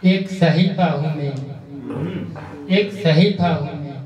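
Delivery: measured Urdu couplet recitation; poetry recitation. Acted. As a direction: recite each verse with deliberate phrasing. (शायरी पढ़ने का ठहरा हुआ अंदाज़)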